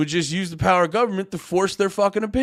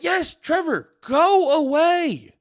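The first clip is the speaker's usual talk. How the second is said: exasperated dismissal; 10 semitones higher, much slower than usual. Real, not acted. Dismissing troll.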